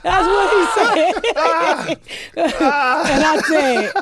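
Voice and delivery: high laughing voice, slowed by laughter; words squeezed out through laughter. Real, not acted. Laughing at own story.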